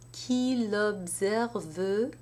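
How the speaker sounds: Qui l'observe with the ENT said as a syllable, slowly; ENT sounded. Shown as a demonstration. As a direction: sound the verb ending. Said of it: "there we have the E N T".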